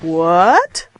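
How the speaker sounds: one-word question, WHAT rising steeply; voice goes up. Shown as a demonstration. Teacher repeating an example question, WHAT going up. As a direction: push WHAT upward at the end. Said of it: "my voice goes up".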